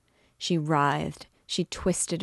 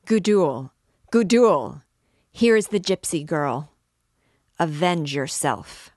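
loud call; 7 dB louder than usual. A narrator's reading. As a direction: hail her from afar, urgent. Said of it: "he called in a loud voice".

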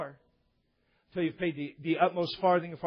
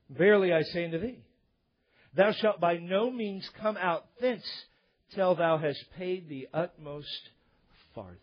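scripture reading. Acted.

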